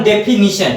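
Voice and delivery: डेफिनेशन said "de-fi-NI-shan"; "ni" as third syllable of डेफिनेशन; correct pronunciation. Shown as a demonstration. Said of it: "इसका हम लोग उच्चारण".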